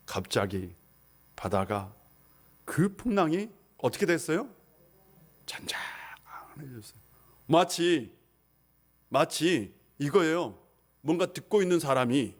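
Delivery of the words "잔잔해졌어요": slow hushed whisper. Acted. Preacher whispers how the storm calmed. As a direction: breathe it out like the calm sea. Sea becomes calm.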